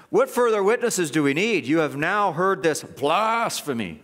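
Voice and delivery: theatrical mock accusation; fake outrage. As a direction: act scandalized, dragging out the final word. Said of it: "The fake outrage".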